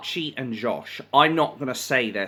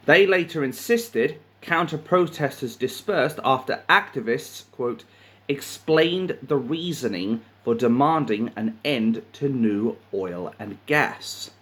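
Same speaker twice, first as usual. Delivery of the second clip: measured, deliberate news reading; reading a news story aloud; article read-aloud; 4 semitones higher than usual. A narrator's reading. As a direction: read it out like a printed report.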